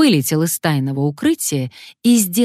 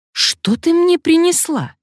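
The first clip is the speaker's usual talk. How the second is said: high, loud astonished question; man stunned by the wrong key; 13 semitones higher, 5 dB louder than usual. Acted. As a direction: stare at it in disbelief. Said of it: "удивлённо уставившись".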